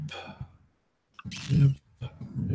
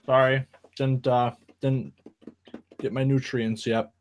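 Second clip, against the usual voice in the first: talking through a mouthful; chewing while talking; 6 dB quieter than usual. Real, not acted. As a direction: mouth full, still chewing. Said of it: "sorry, I'm chewing".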